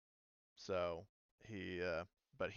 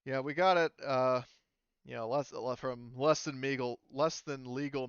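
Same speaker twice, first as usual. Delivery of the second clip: dealer bragging; 3 semitones higher, 7 dB louder than usual. Acted. GM voicing ship dealer.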